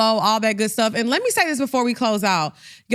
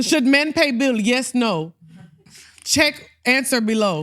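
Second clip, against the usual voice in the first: mock broken-English caption. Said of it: "'Cause their captions are like".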